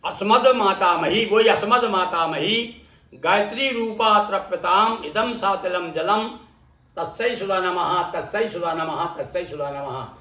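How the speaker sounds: measured Sanskrit recitation, falling away at the end; teacher's demonstration of a mantra. Shown as a demonstration.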